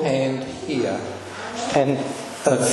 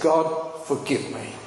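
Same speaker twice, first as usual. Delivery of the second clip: tearful plea; 3 semitones higher, 4 dB quieter than usual. Retold or imitated. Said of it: "I was in tears".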